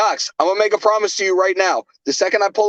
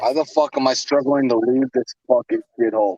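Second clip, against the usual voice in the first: lower, shouted frustration; angry outburst; 5 semitones lower than usual. Real, not acted. Drunk friend venting at the stadium.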